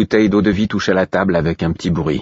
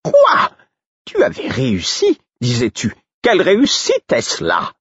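cry of alarm; 12 semitones higher than usual. Acted. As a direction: leap up and cry out as the Fool. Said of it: "en s'écriant".

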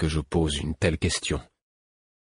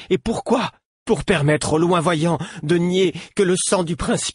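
put-on much higher, louder, shaking young voice; quavering but louder; 10 semitones higher, 3 dB louder than usual. A narrator's reading. Captive boy lectures his captor, quavering and louder. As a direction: shake but push it out. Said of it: "Il chevrotait encore, mais il parlait plus fort".

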